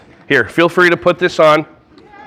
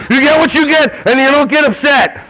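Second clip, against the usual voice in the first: irritated snap; 5 semitones higher than usual. Shown as a demonstration. Teacher showing an irritated parent scolding a child, tight and annoyed. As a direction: bite it out through clenched annoyance. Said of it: "your face is like".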